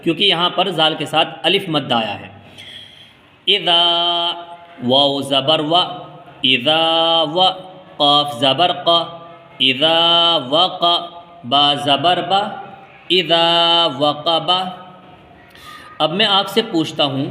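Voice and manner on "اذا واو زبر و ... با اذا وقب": slow, measured chant with long vowels held level; Quranic spelling recitation. Shown as a demonstration. Teacher building a word for learners, slow chanted recitation. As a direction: spell each syllable, then chant the joined word.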